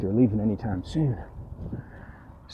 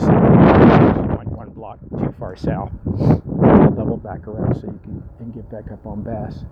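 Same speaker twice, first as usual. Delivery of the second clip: words half lost in wind noise; wind on mic; slower than usual. Real, not acted. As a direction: wind roaring over the mic. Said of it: "I'm sorry about the wind noise".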